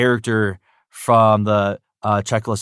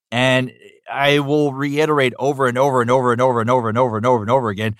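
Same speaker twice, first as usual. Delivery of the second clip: emphatic; faster than usual. Real, not acted. Fan insisting Newgrounds is the best, rushing the repeats. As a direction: rattle off the overs faster and faster.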